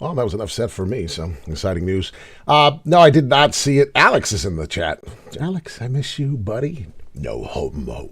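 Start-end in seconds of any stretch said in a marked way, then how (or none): 7.1-8.1 very low, deep voice from the chest. Addressing a buddy in the chat, in a deep voice. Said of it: "I gotta say it with a deep voice".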